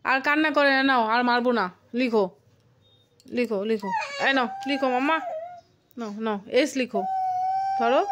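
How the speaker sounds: soft coaxing. Real, not acted. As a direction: soothe him back to the page. Mother coaxing crying child to write.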